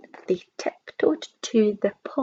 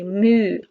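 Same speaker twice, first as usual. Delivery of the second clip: imitated moo; 5 dB louder than usual. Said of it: "let out a deafening sound".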